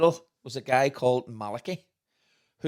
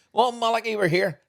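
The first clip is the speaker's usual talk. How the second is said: teasing announcement; 10 semitones higher, 5 dB louder than usual. Retold or imitated. Waking sleeping friend teasingly.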